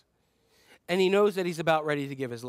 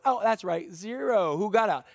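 smug boast; 3 semitones higher, slower than usual. Retold or imitated. Peter bragging about walking on water.

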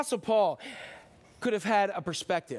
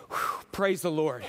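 relieved sigh; 3 semitones lower than usual. Acted. Relieved rider.

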